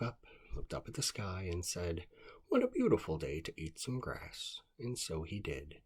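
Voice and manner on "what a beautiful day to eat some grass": groundhog. Acted. Groundhog voiced in a story.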